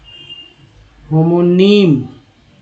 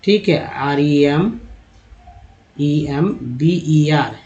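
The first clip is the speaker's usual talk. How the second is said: letters spelled slowly, one by one; slow letter-by-letter spelling; much slower than usual. Shown as a demonstration. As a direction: drag out each letter of रिमेंबर. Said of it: "एक word ले लेते हैं रिमेंबर का".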